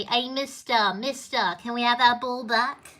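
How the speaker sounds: lightly imitated Liverpool lad pestering someone; mock-childish call for attention, insistent; cheeky plea with a hint of Liverpool accent; cheeky Paul. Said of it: "banging on the window and say".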